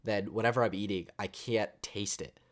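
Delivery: talking while holding breath through the nose; breath held, nose shut off. Real, not acted. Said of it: "like I'm doing it right now".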